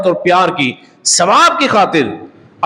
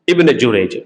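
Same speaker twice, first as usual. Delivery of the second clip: ابن جریج said low and slow, each part spaced; name repeated; 10 semitones lower than usual. Shown as a demonstration. Preacher to congregation, answering his own question with a deep, slow ابن جریج. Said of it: "کیا نام تھا؟".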